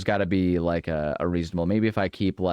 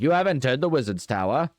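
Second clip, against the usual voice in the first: higher, bouncy cartoon show announcer; kids' TV announcer; 7 semitones higher, 4 dB louder than usual. Shown as a demonstration. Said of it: "like, Nickelodeon show thing".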